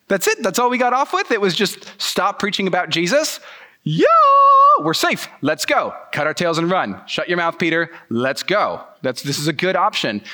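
high, bright rush of relief; can't believe the luck, ready to bolt; man urging Peter to leave, excitedly relieved; giddy relief. Retold or imitated. Relief at getting off lightly.

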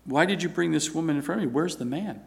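calm, understated questioning after a mock outburst. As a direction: ask it quietly, unruffled. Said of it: "He just calmly said".

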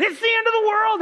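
high mock-alarmed cry; mock panic. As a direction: ham up the panicked prophet. They said.

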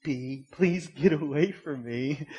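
slow, measured polite request; calm polite shooing. Acted. Calm person asking a bee to leave, polite. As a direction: gently shoo it, keeping things calm. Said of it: "it's trying to calm the situation".

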